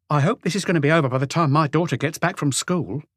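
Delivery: a sulky wife scoffing at authority; scornful housewife. A narrator's reading. Renée complaining.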